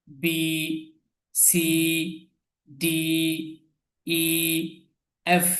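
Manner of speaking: বি, সি, ডি, ই with long held vowels, letter by letter; model letter pronunciation. Shown as a demonstration. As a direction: recite বি to এফ as separate, carefully sounded letters. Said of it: "আপনারা উচ্চারণটা follow করবেন".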